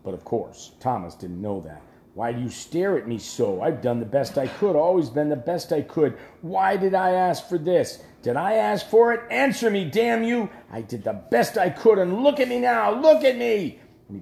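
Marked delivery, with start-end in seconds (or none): 2.1-13.8 put-on an old drunk king's grievance swelling into screams; building drunken rant. Drunk king rants at dragon head.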